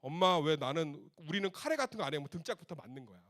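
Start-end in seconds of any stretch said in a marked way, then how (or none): 0.0-2.2 put-on loud whining kid voice; whiny child demand. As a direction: complain like a child to mom. (엄마에게 떼쓰는 아이 목소리)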